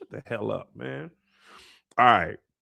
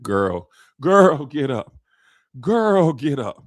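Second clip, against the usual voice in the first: put-on louder nagging girl, get up; mock urging call; 5 dB louder, much slower than usual. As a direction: hurry her out of bed, hammed up. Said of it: "And he was like".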